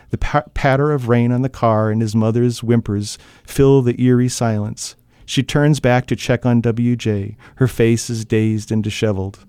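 steady, measured reading of a tense scene; even storyteller voice over a car crash; story narration. A narrator's reading. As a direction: read it like an audiobook narrator drawing listeners in.

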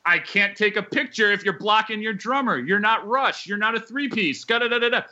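mock indignant back-and-forth, voiced up; retold argument. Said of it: "And I'm like".

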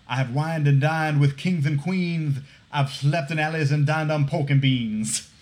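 N=Dusty Rhodes/public. Retold or imitated. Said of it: "my favorite is probably".

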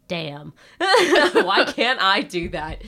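laughing, slow and loud. Retold or imitated. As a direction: laugh through the words. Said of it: "And I'm like".

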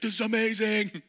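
high, loud amazed voice; amazed friend. Retold or imitated. Friend marvelling at the shot, high and loud.

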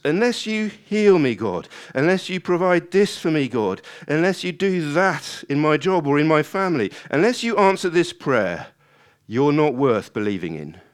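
loud, high string of ultimatums; demanding of God. Acted. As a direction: make loud demands, dropping in pitch at the end. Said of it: "we demand that God serve us".

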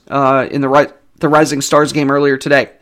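talking through hiccups; speech broken by small hiccups. Real, not acted. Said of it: "I have the hiccups a little bit".

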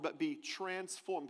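slow and soft, "be transformed" drawn out; slow emphasis. Shown as a demonstration. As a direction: linger on "be transformed". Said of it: "Put the word on the screen".

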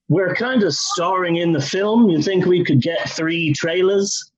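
lightly voiced impression of a band; a hint of a band's singer talking. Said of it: "this is my band voice".

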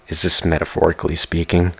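hushed near-whisper question. Real, not acted. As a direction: drop to a whisper as if musing to yourself. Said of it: "I'm whispering again".

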